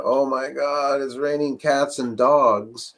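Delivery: a hammed-up cry of dismay at heavy rain; mock alarm at rain. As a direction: play it like you're caught in a downpour. Running inside, covering head from rain.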